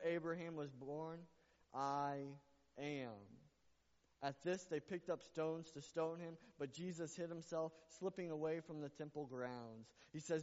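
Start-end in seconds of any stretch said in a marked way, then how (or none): none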